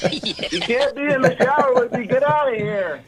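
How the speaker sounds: shooing the cat. Real, not acted.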